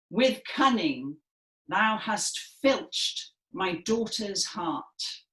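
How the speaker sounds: slow, projected Shakespearean line; projected stage delivery. Shown as a demonstration. Teacher demonstrating the angry father's line to the class, projected stage voice. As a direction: declaim it like an actor on the Stratford stage. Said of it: "in our best Royal Shakespeare Company voices".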